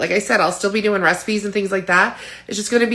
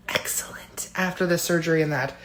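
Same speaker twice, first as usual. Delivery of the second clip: whisper; 7 dB quieter than usual. Real, not acted. Aside whispered.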